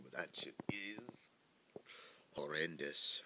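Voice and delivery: slow breathy whisper, no voice; hushed confidential whisper about the drink. Real, not acted. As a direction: lean in and whisper it slowly. Complaining about his drink.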